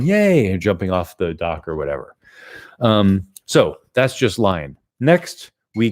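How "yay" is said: put-on high, loud kid's squeal of joy; kid cheering. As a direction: squeal like a kid jumping off the dock. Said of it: "a little kid, uh, getting all excited and hopping and then going".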